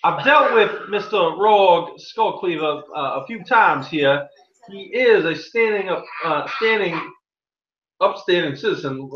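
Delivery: a hint of a pompous judge; lightly voiced small-town judge; stern judge. Game master voices the judge.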